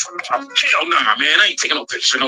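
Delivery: said flatly and bluntly. Retelling asking for a picture and being turned down: imitating Michael Jordan's refusal. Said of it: "And he said it like that".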